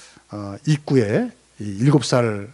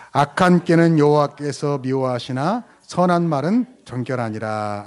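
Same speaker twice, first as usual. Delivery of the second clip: scripture reading; slower than usual. Acted.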